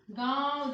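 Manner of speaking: loud, wide-open "गांव"; open-mouthed nasal vowel. Shown as a demonstration. Teacher has students watch the mouth, loud open "गांव". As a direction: let "गांव" out mostly through the mouth, loudly. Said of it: "मुख को बड़ा करना पड़ रहा है ना".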